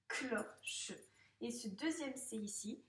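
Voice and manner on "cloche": "cloche" as clo, short pause, che; split into syllables. Shown as a demonstration. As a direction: separate the first syllable of "cloche". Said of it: "dans la première syllabe". (« cloche » découpé en clo-che)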